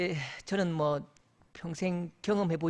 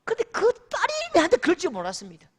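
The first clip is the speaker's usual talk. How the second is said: mock outraged, higher and fast; 10 semitones higher, 3 dB louder, faster than usual. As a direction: blurt it out as the wounded father. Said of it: "화를 내시는데요".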